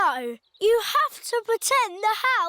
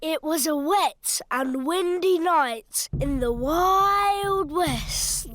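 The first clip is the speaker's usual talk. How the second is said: spooky storytelling; 5 semitones lower than usual. Acted. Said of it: "Make it scary".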